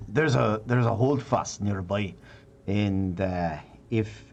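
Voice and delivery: Scottish dwarf introducing himself, haltingly; hesitant Scottish dwarf voice; Scottish accent. Acted. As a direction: speak as a dwarf with a Scottish brogue. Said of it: "the Scottish in me".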